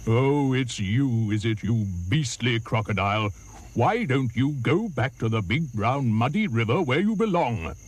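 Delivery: elephant's big deep voice. Acted. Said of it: "in his big, deep voice".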